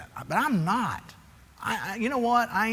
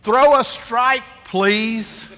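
polite coach; 7 semitones higher, 9 dB louder, much slower than usual. Retold or imitated. Coach Francis asking his pitcher politely, encouraging. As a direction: coax the pitcher gently. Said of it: "He says".

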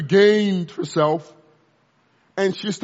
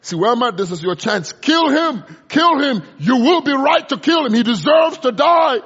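tempting inner voice; 6 semitones higher, 5 dB louder than usual. Retold or imitated. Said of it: "Something said".

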